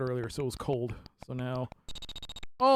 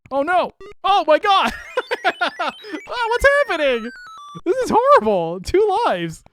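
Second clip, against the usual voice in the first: high, loud panicked shrieks at the game; panicked yelling; 13 semitones higher, 10 dB louder than usual. Real, not acted. Streamer shrieking in panic as his cat loses lives. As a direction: yelp in real alarm as the cat gets hit.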